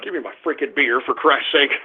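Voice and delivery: very low, soft and worn out; weary grumble. Real, not acted. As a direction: grumble it under your breath, defeated. Fed up, wants his beer.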